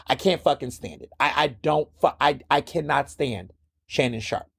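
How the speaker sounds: normal talking voice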